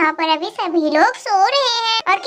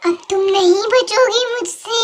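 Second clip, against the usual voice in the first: witch threat. Acted.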